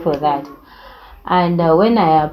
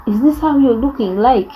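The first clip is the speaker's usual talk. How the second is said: crying mother; 8 semitones higher than usual. Retold or imitated. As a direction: wail it like a mother in tears. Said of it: "she cried".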